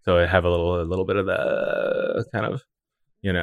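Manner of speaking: low creaky vocal fry; croaky frog in throat. Real, not acted. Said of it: "Vocal fry your face".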